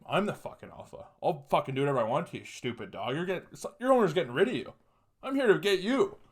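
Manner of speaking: mock cocky challenge to a dog, rising in pitch; alpha attitude. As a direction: act like the boss of the dog. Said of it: "That was my attitude".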